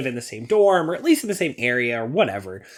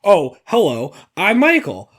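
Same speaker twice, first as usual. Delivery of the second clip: a lightly voiced eager new hire; a hint of an earnest corporate newbie; mock self-introduction; 3 semitones higher than usual. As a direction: rattle off your credentials like a nervous introduction. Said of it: "you'd be like".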